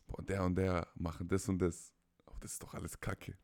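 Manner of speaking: abfällig geflüstert, kaum Stimme; flüstere die Verachtung leise hin; geflüsterter Frust. Retold or imitated. Empörtes Flüstern, Frust nachgespielt. (verächtliches Flüstern)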